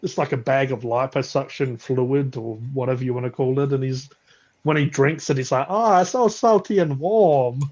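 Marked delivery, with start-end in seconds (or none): 5.7-7.6 higher-pitched cartoon impression; South Park voice. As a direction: put on a silly South Park character voice. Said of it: "how South Park sounding voice".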